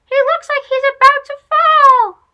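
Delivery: high, loud bird call down the hill; toucan shouting. Acted. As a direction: shout the alarm from the air. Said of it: "Tucana shouted down to Chico".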